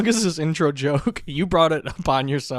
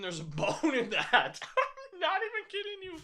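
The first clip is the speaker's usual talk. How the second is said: surprised; 5 semitones higher, 6 dB quieter than usual. Real, not acted. Finds a bone in his food.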